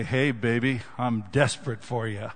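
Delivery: a hint of smooth-talking flirt; come-on. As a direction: say it like a cheesy come-on. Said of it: "the language that you'd say".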